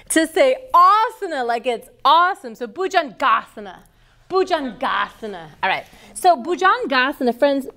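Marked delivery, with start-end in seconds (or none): 0.7-1.5 asana with its first syllable stressed, like "awesome". Shown as a demonstration. Teacher showing trainees how Sanskrit pose names end, asana stressed on its first syllable. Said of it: "put the emphasis on that syllable". 2.7-5.5 bhujangasana with the "GAH" of its asana ending stressed; stress on asana syllable. Shown as a demonstration. Teacher demonstrating the Sanskrit stress rule, bhujangasana with emphasis on GAH. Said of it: "put the emphasis on that syllable".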